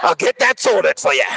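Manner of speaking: busy Aussie waiter; matter-of-fact broad Australian twang; broad Australian accent. Acted. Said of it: "very broad Australian accent".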